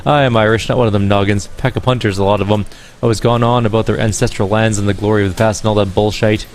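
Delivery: put-on bright-toned Irish accent, musical lilt. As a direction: play her as a lyrical Irish gamer woman. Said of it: "I can't place the accent".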